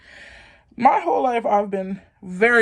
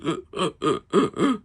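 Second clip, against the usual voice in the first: hiccup sounds. Shown as a demonstration. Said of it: "where I'm just".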